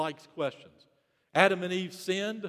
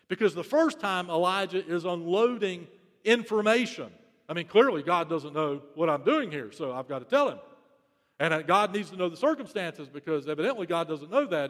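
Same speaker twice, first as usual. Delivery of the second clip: Elijah unloading facts, a bit louder and pushy; informing God; 4 dB louder than usual. Retold or imitated. Elijah briefing God on the facts, brisk and insistent. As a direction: tell God everything as if he didn't know. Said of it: "a little tone difference in the text".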